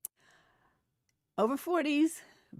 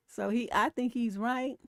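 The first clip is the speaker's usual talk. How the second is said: ordinary talk, nothing marked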